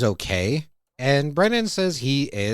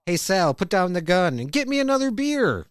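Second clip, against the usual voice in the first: dad impression; 7 semitones higher than usual. Coach mimicking his dad talking back to a movie, hammed-up. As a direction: ham up a dad bossing the screen. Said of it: "impression of his dad watching Dog Day Afternoon".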